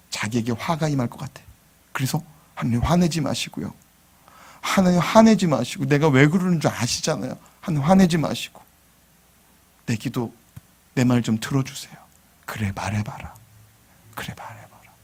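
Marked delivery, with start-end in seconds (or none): 2.5-11.9 put-on soft, coaxing like a little child; childlike pleading. Abraham coaxing God softly like a child. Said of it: "애기처럼 기도해요". 12.4-14.9 hushed, barely voiced; whispered reply. God whispering back to Abraham.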